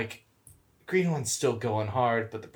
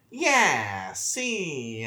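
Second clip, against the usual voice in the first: put-on New York accent. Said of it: "that's a horrible impression".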